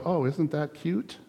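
lightly voiced dismissive God; mock patronizing. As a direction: pat them on the head, slowly. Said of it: "I'm just gonna go".

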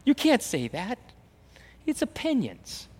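high, incredulous objection; mock shock. Preacher mocking a shocked listener, incredulous. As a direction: play the shocked churchgoer.

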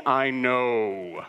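loud, drawn-out retold outburst; angry yell. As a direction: act out an exasperated angry shout.

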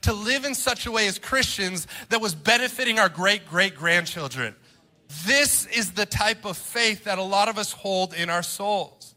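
fervent pulpit appeal, building in pitch; driving, emphatic sermon delivery; impassioned preaching. Real, not acted. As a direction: preach it with rising conviction.

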